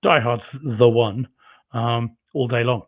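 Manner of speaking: muffled, too close to mic. Real, not acted. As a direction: hand over mouth. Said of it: "the chat says I sound a bit muffled".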